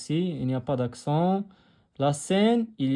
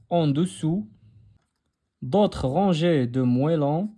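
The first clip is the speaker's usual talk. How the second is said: lecture à voix haute; slower than usual. Shown as a demonstration. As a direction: lecture lente et posée du texte pour la classe. Lecture du texte aux élèves. (lecture expressive d'une maîtresse)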